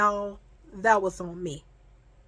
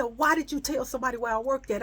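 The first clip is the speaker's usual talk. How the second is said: rapid-fire scolding in a raised pitch; retold yelling; 4 semitones higher, much faster than usual. Friend on the phone to the one who told, mock yelling. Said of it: "All I hear is yelling".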